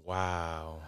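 breathless, stunned whisper; awed whisper. Retold or imitated. Walking downstairs after the email, acting out an awed whisper. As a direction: whisper it slowly, as if it's sinking in.

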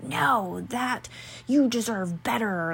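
lightly hammed-up protective friend; mock crusader. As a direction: defend a friend with mild mock outrage. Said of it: "the crusader that's like".

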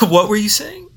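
high, strained sickly voice; weak sick voice. Pretend. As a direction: play the frail patient. Sick act.

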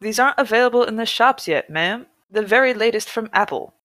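a hint of California surfer dude making a pitch. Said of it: "use my California surfer voice".

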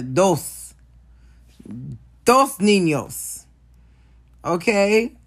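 slow, drawn-out Dos niños; pointed emphasis. Real, not acted. Telling Fizz they have two kids, slow and pointed. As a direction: spell it out, slowly.

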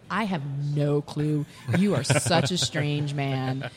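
slow, drawn-out bemused reply; bemused dismissal. Retold or imitated. Raj answering the strange Frenchman, slowly bemused. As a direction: stretch the words out in slow disbelief.

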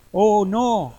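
loud, high "oh no" of dread; dismayed gasp. Acted. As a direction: blurt it out in shock. Godson sees Death by the bed.

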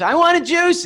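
put-on high, loud childish whine; whiny tantrum voice. Father recalling daughter's whiny tantrum demand. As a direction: mimic the little girl's tantrum demand. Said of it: "it's low grade temper tantrum".

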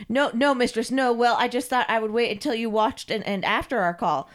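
hurried backtracking excuse; cowed submissive servant. Acted. Carl backtracks to his mistress, flustered. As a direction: stammer an excuse to your mistress.

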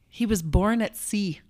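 usual speaking voice

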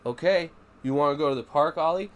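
bright coaxing. Retold or imitated. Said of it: "And I'm like".

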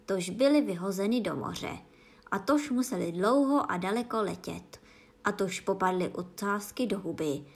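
a hint of an emphatic storytelling creature; lightly voiced explaining Gryphon. (lehce zahraný Gryfon, důrazný výklad)

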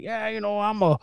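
lightly imitated Southern twang; mild mock Southern neighbor. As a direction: ramble casually in a put-on Southern twang. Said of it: "you got a little twang".

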